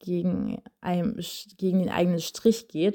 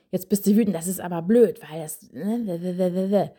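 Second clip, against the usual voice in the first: scolding parent. Retold or imitated. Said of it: "sondern nicht".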